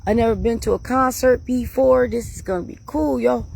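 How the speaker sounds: high, giddy this cool yo; bouncing with excitement before the concert; retold excitement. Heading to her first concert, giddy and high. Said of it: "And I'm just like".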